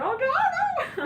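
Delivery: high squealing laugh through no no; giggling protest. Retold or imitated. Teasing lover giggles her protest, high laughing squeal. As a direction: giggle it out as if tickled.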